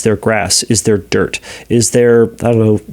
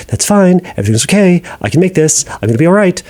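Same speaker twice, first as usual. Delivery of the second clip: higher, tense forced cheer; forced reassurance; 6 semitones higher, faster than usual. Shown as a demonstration. Therapist showing the wrong, forced way to reassure yourself. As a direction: talk yourself into it, too brightly. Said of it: "Not in like a".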